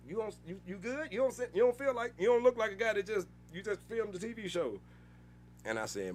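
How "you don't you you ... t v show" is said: higher, lightly voiced Monique, concerned; a hint of Monique checking on him; imitating Monique. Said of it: "Monique was like".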